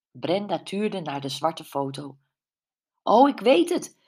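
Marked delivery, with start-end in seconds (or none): 3.0-4.0 high, loud burst of sudden recognition; excited exclaim. A narrator's reading. Brenda recognising meteors in the photo, calling out excitedly. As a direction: call it out as it clicks. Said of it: "riep ze".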